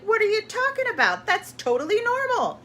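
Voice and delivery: high, loud mock yell; defensive yelling. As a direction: re-enact an indignant, high-pitched outburst. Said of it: "I was so yelling".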